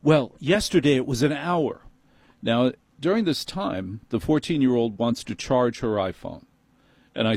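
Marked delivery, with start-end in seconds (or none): 0.0-1.8 higher, dismissive manager line; snooty manager voice. Retold or imitated. Manager brushing off the customer, higher and snooty. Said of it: "no, he said".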